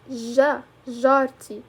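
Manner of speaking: ج as "zha", then جارتي as "zharti"; sound demonstration. Shown as a demonstration. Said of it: "the sound".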